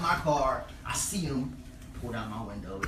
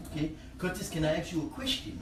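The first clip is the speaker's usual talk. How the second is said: put-on African accent; 3 dB quieter than usual. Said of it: "And he's African".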